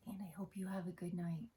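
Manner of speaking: quick goodnight whisper. Real, not acted. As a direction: whisper a goodbye at bedtime. Bedtime sign-off to viewers.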